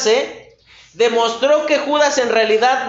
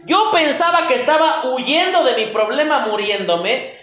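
a sudden higher "No" of dismay, then worried; dismayed Judas; 3 semitones higher than usual. Retold or imitated. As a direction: Judas realising he is trapped, alarmed. Judas waking in condemnation.

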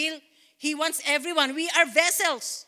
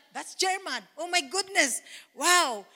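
amazed; 4 semitones higher than usual. Retold or imitated. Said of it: "I said".

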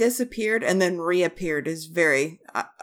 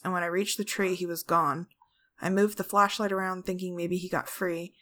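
soft, even story narration; story reading; 4 dB quieter than usual. Acted. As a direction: read the ghost tale quietly. Reads a ghost story aloud.

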